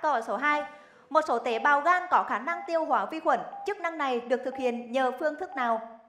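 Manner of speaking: crisp quiz host read; game show host. Acted. Rapid-fire quiz round.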